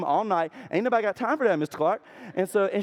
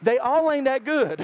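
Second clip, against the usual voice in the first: mock drawl; 7 semitones higher, 4 dB louder, slower than usual. Real, not acted. Mocking aside about trophies.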